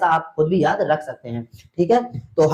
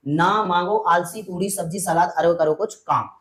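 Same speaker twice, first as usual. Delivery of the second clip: slow mnemonic. Shown as a demonstration. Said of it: "देखो बेटा".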